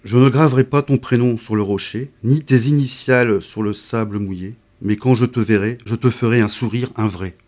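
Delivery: unhurried poetry reading with pauses; poem reading. Shown as a demonstration. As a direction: read each line as a small image. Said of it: "Je vais vous en lire un autre".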